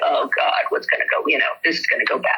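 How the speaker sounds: whispered, rushed dread; hurried fearful whisper of a worried horse; anxious inner horse. Retold or imitated. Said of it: "they're like".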